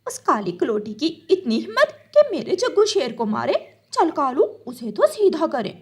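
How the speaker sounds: indignant, high angry voice; rally the father to go after her; outraged mother. Acted.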